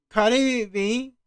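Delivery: high, loud, drawn-out disbelief; loud incredulous exclamation; incredulous outburst. Real, not acted. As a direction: blurt the name slowly in disbelief. Incredulous reaction to her being named.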